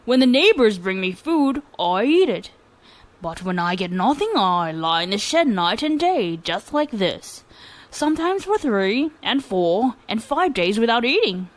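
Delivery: lightly voiced lazy lad, slow and unbothered; lazy boy. Lazy boy boldly telling the governor he does nothing, slow. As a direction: drawl it like you can't be bothered.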